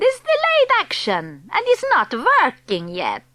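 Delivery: a hint of a foreign witch accent. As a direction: speak as the stern witch leader. Grand High Witch explains plan.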